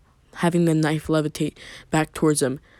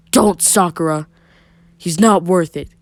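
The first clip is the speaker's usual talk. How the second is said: firm; 6 dB louder than usual. A narrator's reading. Tsunade stops Sakura's punch.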